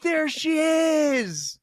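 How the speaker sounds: high, slow megaphone call. Retold or imitated. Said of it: "I finally got my hands on the megaphone".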